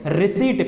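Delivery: रिसीट said as "ri-seet"; रिसीट with a long "ee" straight into T; silent P. Shown as a demonstration. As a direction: leave the P out of रिसीट. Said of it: "पी is silent".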